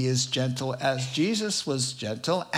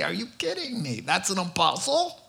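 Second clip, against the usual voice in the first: mock incredulous critics, pitched up; scoffing disbelief; 5 semitones higher, faster than usual. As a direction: sneer it like a doubting critic. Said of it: "where people say".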